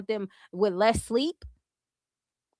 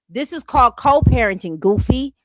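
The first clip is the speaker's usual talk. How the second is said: louder, pressing the point; scolding emphasis; emphatic; 6 dB louder than usual. Real, not acted. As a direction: hammer it home, louder. Lecturing the woman.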